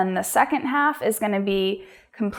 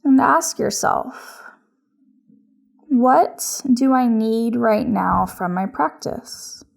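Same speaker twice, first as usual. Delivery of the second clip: yoga instruction. Acted. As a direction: guide each breath unhurriedly, with long pauses. Leads a yoga practice.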